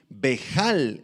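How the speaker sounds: bejal con jota y acento en la a; palabra aramea. Shown as a demonstration. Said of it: "con H y acento en la A". (bejal, como "bejál")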